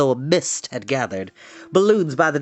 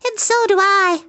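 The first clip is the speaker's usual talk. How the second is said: very high tiny voice; Nellie; 4 dB louder than usual. A narrator's reading. Third baby spider joining the pledge, tiny high voice. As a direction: chime in squeakily. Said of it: "said Nellie".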